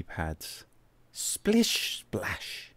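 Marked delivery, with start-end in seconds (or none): 1.1-2.7 whispered splashing. A narrator's reading. Water sound effect in story.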